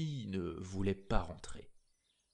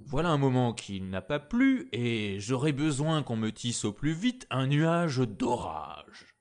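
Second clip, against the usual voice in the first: angry emperor; 3 semitones higher, 5 dB louder than usual. Acted. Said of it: "gronda l'empereur".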